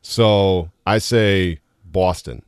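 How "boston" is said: "Boston" with a drawn-out "aw" vowel; long O. Shown as a demonstration. Guest showing his own accent, long O. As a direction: stretch the O in "Boston". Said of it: "Mine comes out in O's".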